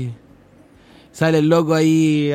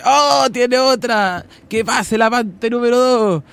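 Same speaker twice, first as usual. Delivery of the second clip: slow, higher host announcement; mock talk-show host; 5 semitones higher, slower than usual. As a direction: drag it out like a TV host. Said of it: "Y dice". (presentadora de tele imitada, lenta)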